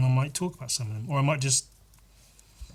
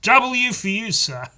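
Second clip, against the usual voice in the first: mock upper-class British accent, higher and louder; posh British accent; 10 semitones higher, 7 dB louder, slower than usual. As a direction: ham up a jolly-good British gent. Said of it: "in a British accent".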